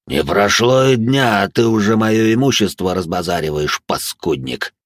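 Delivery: slow, eerie ghost voice; otherworldly voice. Acted. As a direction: speak like a vengeful phantom. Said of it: "Потусторонним голосом".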